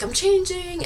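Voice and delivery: mock Rachel. Retelling movie scene, Rachel voiced.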